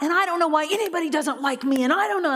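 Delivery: high, mock-aggrieved whine; spewing anger. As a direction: imitate her angry self-pitying complaint. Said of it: "The anger, the hatred, the, it was just spewing out".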